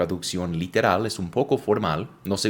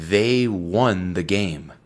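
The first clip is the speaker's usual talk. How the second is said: "They won the game" said slowly, word by word; teacher reading the example slowly; slow model reading; much slower than usual. Shown as a demonstration. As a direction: read it slowly for the learner. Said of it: "Por ejemplo".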